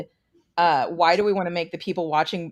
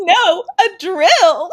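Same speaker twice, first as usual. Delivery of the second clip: imitated cheerful voice, higher and louder; 14 semitones higher, 10 dB louder than usual. Quoting the killer's line from a horror movie: imitating a cheerful voice. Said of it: "in a really, like, cheerful voice".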